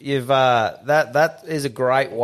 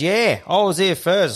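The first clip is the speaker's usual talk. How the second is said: mock indignant neighbour; 8 semitones higher than usual. Neighbour insisting she came first.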